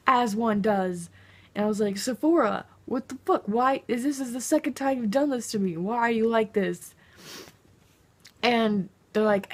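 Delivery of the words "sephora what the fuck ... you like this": angry tweet. Retold or imitated. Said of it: "So I angrily tweeted at Sephora".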